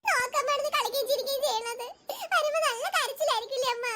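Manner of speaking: tearful pleading with mother; weepy, whimpering appeal; crying. Acted. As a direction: beg mother through sobs to spare the baby. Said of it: "പിന്നെ എന്തിനാണ് ഇത് കരയുന്നത് നിങ്ങള്".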